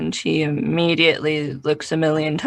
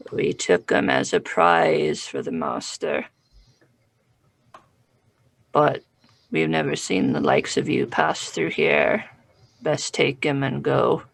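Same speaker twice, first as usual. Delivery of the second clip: gravelly sly hobgoblin; 2 semitones lower than usual. Acted. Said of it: "And the hobgoblin says".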